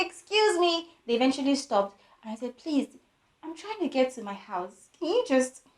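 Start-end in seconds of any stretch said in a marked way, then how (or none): 0.1-0.9 high, small pleading call; tiny voice. Retold or imitated. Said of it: "Me and my tiny voice". 2.6-5.6 pleading. Retold or imitated. Reenacts begging strangers for an escort.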